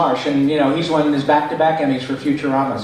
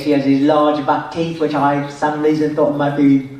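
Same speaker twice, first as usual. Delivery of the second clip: buck-toothed English accent; put-on English character accent. Shown as a demonstration. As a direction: speak English-accented, round big front teeth. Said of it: "I came up with an English accent".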